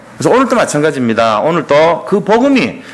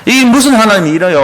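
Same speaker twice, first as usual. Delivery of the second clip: higher-pitched mock grievance; grumbling complaint; 5 semitones higher than usual. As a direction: act out complaining at God. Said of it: "마음속으로는 그런 불평, 불만한단". (높은 톤으로 불평하듯이)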